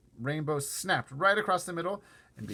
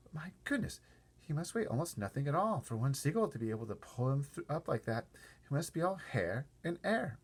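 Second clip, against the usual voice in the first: delighted; 4 semitones higher than usual. Acted. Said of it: "watching with delight".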